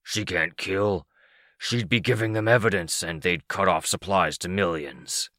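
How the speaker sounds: sinister hissed character voice; hissing. A narrator's reading. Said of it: "his voice like a hiss from the bottom of a well".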